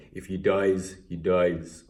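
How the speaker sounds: lightly imitated Russian film-villain accent; Ivan Drago, Russian accent. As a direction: quote it with a hint of a Russian accent. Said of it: "I wanna be like, um, Ivan Drago".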